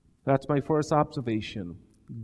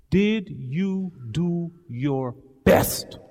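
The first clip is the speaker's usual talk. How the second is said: slow question; much slower than usual. Retold or imitated. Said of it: "my only question was".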